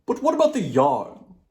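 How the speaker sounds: hungry for the story's end; djinn asking. Acted.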